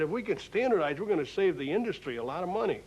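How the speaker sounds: lightly enthused, pitch lifted at the start, then quickening; retold enthusiasm. Executive telling Stu about standardizing pallets, mildly enthused. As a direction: retell it with a touch of eager salesmanship. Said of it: "he got all enthused".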